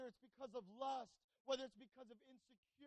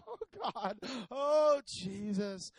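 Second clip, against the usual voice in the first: loud, hammed-up panicked plea; desperate prayer; 17 dB louder, much slower than usual. Preacher acting out his climb up the stairs, loud panicked prayer. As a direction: call on God in mock dread. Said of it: "I'm just start praying".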